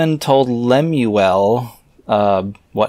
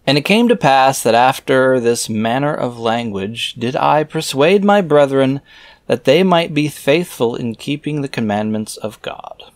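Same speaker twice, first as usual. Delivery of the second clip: raised, measured reading voice; scripture reading; 3 semitones higher than usual. Acted. Reader reciting scripture verses aloud in a solemn reading voice. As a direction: read the old verses out with solemn weight.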